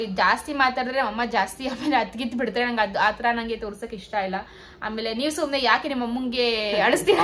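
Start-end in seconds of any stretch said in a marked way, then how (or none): 5.1-7.2 playful mock complaint, rising into a laugh; laughing mock reproach. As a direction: imitate viewers' scolding, breaking into laughter. Teasingly voices viewers' reproach, laughing. (ನಗುತ್ತಾ ಹುಸಿ ಆಕ್ಷೇಪಣೆ)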